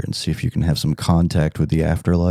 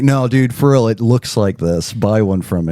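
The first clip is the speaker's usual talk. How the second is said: salesman pitch. Retold or imitated. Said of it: "this globe salesman".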